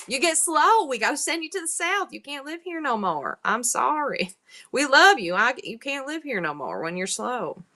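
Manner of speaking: mock-apologetic old-lady Southern accent. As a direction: break it gently in a put-on Southern accent. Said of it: "my Southern voice is old lady".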